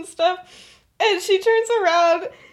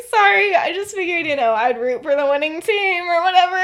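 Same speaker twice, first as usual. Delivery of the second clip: lightly put-on cheeriness; breezy, playful comeback, mildly imitated; bubbly. She brushes off boyfriend about the sweater, bubbly. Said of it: "so, so bubbly".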